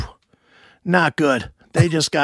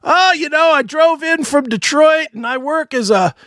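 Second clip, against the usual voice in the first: high, loud mock blabbermouth; imitating a guy who won't stop talking; nonstop talkative audience member; 9 semitones higher, 4 dB louder than usual. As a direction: ramble on over everyone, pitched up. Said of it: "he talked more than".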